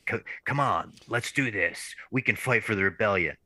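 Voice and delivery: lightly voiced rebel pilot; a hint of a heroic rallying voice; rally them with a light film-hero impression; Poe Dameron. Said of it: "Mark's got that Poe Dameron voice".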